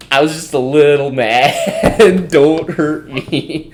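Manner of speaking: slow, drawn-out mock plea; mock meek plea. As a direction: stretch it out like a helpless little guy. Retold meek plea to bigger player.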